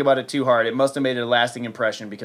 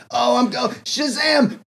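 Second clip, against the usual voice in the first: much higher rising cry; climactic shout; 9 semitones higher, slower than usual. Retold or imitated. Kid in his dorm with Betty, climactic mock shout. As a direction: let the word burst out. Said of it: "and he's like".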